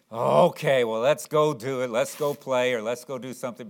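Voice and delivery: mildly reluctant mock consent; acted half-hearted agreement; begrudging. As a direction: give in grudgingly, as if owing it. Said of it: "you almost begrudgingly".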